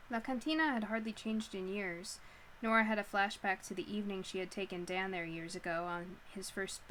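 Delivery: measured audiobook-style reading; story narration. A narrator's reading. Reading Nora's awkward meeting with Ash, story narration. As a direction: read the novel aloud to listeners. Reads a novel aloud.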